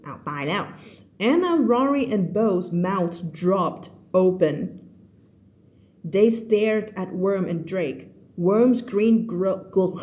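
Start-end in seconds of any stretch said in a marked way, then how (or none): 1.3-10.0 slow, deliberate reading aloud; story read-aloud. Acted. Teacher reading the story to online students, slow read-aloud. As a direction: read it out slowly, word by word.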